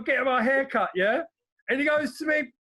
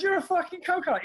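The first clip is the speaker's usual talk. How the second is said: same insult said higher and harder; repeated insult, higher; 6 semitones higher than usual. Retold or imitated. Repeating it to the barber, higher and pointed. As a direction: push it up in pitch the second time. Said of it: "I goes".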